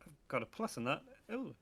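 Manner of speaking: real pleased surprise at a bonus; surprised. Real, not acted. Player finding a bonus on their sheet, surprised. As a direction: discover it as you speak. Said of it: "I love how surprised you sound".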